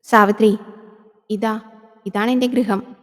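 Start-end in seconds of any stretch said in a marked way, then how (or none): 0.0-0.6 loud call of her name. Acted. Man bringing the yakshi home, loud call. Welcoming her loudly at the house.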